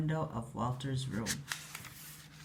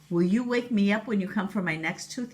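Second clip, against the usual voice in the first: drowsy, sleepy voice; 3 semitones higher than usual. Acted. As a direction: ask half asleep. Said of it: "he asked sleepily".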